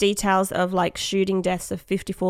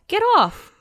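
annoyed monkey voice; 13 semitones higher, 3 dB louder than usual. Retold or imitated. Voicing the annoyed monkey again.

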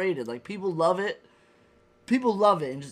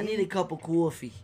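mock New York "cawfee" voice; New York accent. Friends riffing on New York, put-on New York accent. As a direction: lean into a New York vowel on coffee. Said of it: "like, New York does".

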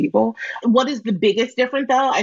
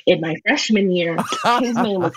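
sultry phone operator. Pretend. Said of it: "Can you do a little for us".

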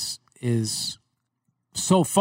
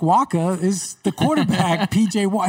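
put-on Long Island accent; 4 semitones higher than usual. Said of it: "my Long Island accent".

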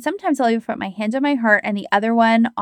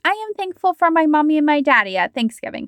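lightly voiced little kid, pitched higher; 5 semitones higher than usual. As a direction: chirp it like a small child reciting thanks. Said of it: "way a little kid does it".

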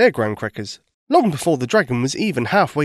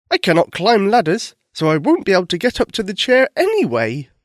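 unicorn voice; 6 semitones higher, 4 dB louder than usual. Acted. Unicorn speaks in story.

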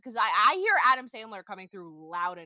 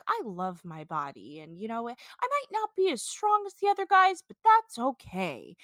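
lightly voiced reality-show confessional; imitating Twelve Pack; 2 semitones higher than usual. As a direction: play it earnest and a bit goofy. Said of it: "talking head about him being like".

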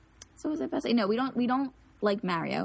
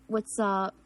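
slight South Philly accent; casual South Philly greeting; a touch of South Philly. Shown as a demonstration. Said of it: "my South Philly accent".

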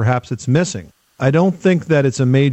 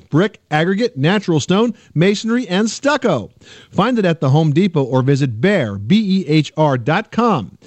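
upbeat sponsor read; 3 semitones higher than usual. Acted. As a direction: sell it, climbing through the list. Host reads sponsor ad.

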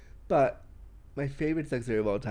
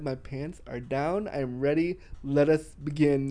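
slow declaration; slower than usual. Retold or imitated. Acts out own impatient quote.

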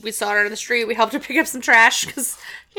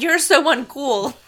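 put-on sulky kid voice; 4 semitones higher, much slower than usual. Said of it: "I like it way better as".

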